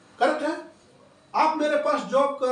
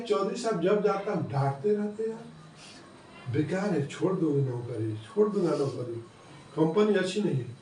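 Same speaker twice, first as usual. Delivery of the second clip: grumbling employee; 7 semitones lower than usual. Acted. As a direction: moan like a fed-up worker about his boss. (चिढ़े हुए कर्मचारी की धीमी, नीची शिकायती आवाज़)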